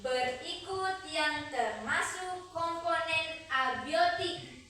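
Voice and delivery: dictating. Acted. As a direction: read it out for the class to write. Repeats quiz question aloud.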